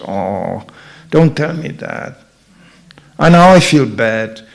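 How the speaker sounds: slow, mock-wounded protest; hurt Vaishya. Merchant type called stupid, mock hurt. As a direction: droop as if the insult stings. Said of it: "This is Vaishya".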